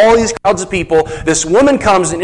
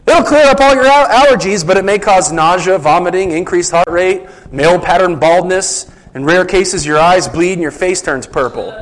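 mock ad announcer. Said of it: "the announcer reads off this list of side effects real quick".

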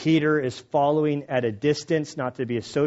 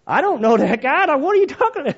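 loud high frantic denial; Peter denying, shouting; 14 semitones higher, 9 dB louder than usual. Retold or imitated. Peter shouting denial at the bystanders, loud and high. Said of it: "Peter denying again".

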